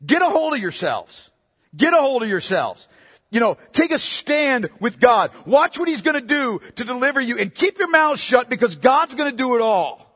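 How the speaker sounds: forceful, punchy scolding in a preacher's voice; imitating a stern leader's telling-off; emphatic rebuke. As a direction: order them to pull themselves together. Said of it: "These are emphatic statements in the Hebrew".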